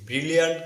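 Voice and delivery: ব্রিলিয়ান্ট with a single short L; common mispronunciation. Shown as a demonstration. Teacher showing learners the common error, mispronounced. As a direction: say ব্রিলিয়ান্ট run together, L not held. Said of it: "একটি ভুল উচ্চারণ".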